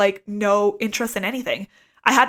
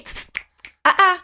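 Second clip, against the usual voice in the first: hissing tsk; 8 semitones higher than usual. Retold or imitated. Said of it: "She'd be like, Hey".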